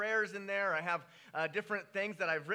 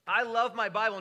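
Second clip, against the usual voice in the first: louder, stress on love; emphatic love; 3 semitones higher, 8 dB louder than usual. Real, not acted. Preacher declaring to the congregation, stress on love. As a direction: declare it proudly.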